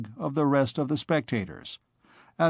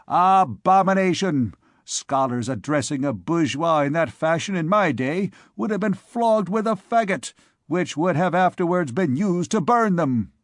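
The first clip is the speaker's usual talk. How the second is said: raised-pitch scolding, loudest at the start; indignant old bourgeois; 4 semitones higher than usual. Acted. Venerable bourgeois rebuking the scholars, indignant. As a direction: exclaim in outrage, then scold.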